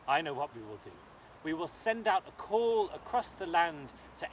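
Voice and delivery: a king decreeing to his realm; commanding king. Acted. King proclaims a reward to his daughter, loud and stately. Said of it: "said the king".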